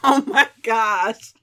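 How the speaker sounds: loud, high, exasperated defence; indignant insistence. Real, not acted. Wife telling viewer Nikki their clothes were fine, indignant. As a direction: insist loudly with amused exasperation.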